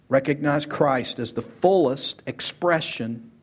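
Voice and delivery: slow, weighted, leaning on "fullest"; slow emphatic repeat. Shown as a demonstration. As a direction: repeat it slowly so it sinks in, pressing "fullest".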